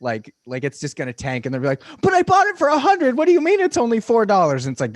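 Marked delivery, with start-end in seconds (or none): 2.0-4.6 high, loud disbelieving cry; shrill outrage at losing money; shocked seller. Retold or imitated. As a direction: squeal it like a panicked seller. Panicked stock seller, acted quote.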